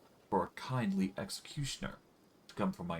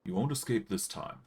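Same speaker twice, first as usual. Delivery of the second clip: teasing rogue voice; 4 semitones higher than usual. Acted. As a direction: toy with her, sweetheart-style. Voicing Anivia teasing.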